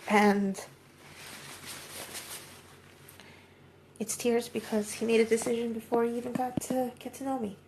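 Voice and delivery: crying through the words. Real, not acted. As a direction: voice breaking upward in tears. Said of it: "'Cause it's mostly tears".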